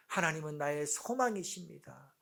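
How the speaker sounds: building declaration of faith; proclaiming. Shown as a demonstration. Preacher modelling how to declare God's character, building proclamation. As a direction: start restrained, lift into firm proclamation. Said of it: "선포해야 되는 것입니다".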